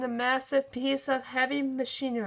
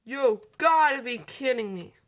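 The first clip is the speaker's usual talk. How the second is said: complaining; 6 dB louder than usual. Acted. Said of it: "McQueen complained".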